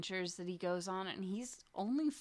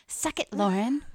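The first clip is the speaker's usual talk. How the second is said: taunting; 2 semitones higher, 13 dB louder than usual. Real, not acted. Mock taunt at listener.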